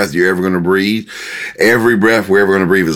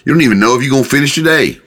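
higher-pitched, mildly incredulous objection; challenging interruption; 6 semitones higher, much faster than usual. Acted. God interrupting someone's plans for tomorrow, mildly challenging. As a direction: cut in on a presumptuous planner, voice lifted. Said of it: "He said".

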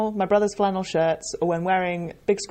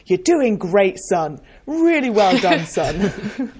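mock-patronising pat on the head, laughing; lightly voiced condescending patient; 4 dB louder, much slower than usual.

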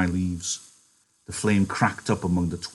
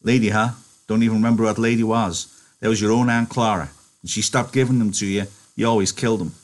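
a hint of scoffing George; 3 semitones higher, 3 dB louder than usual. George scoffing at Lenny's lady story, mocking. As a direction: brush off his excuse.

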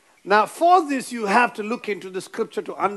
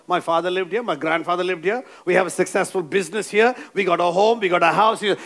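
lower-pitched listing of excuses; lightly voiced Abraham protesting to God; reluctant objector; 4 semitones lower, faster than usual.

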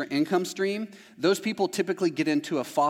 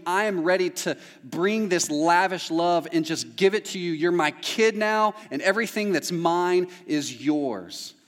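God's loving words; 4 semitones higher, 3 dB louder than usual. Retold or imitated. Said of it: "he tells you".

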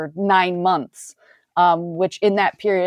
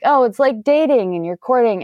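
mocking quote; 5 semitones higher than usual. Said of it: "So whenever they say".

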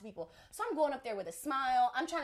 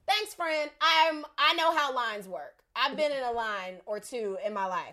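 sarcastic retort; 5 dB louder than usual. Retold or imitated. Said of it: "So I'm like".

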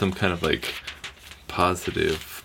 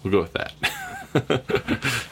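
reading voice. Acted. Official reader reads James chapter five to the group in a steady scripture-reading voice. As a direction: read it out like the appointed reader. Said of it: "Let me put my reading voice on".

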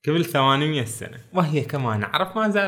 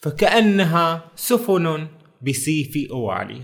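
slow, measured recital of a verse; slow Arabic verse recital; poem recitation; slower than usual. Retold or imitated. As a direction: recite the line slowly like classical poetry. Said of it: "قال".

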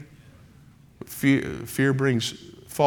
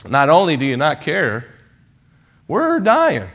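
higher, louder cry of alarm; panicked disciples; 3 semitones higher, 4 dB louder than usual. Retold or imitated. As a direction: cry out like men about to drown. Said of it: "They said".

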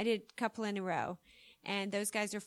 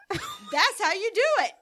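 smug lesson; 10 semitones higher, 6 dB louder than usual. Retold or imitated. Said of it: "he goes".

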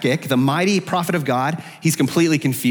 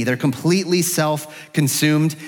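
ordinary talk

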